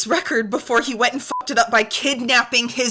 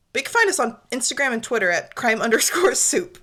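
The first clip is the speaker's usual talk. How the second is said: whispered Australian attempt. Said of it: "They say Twitter like something else".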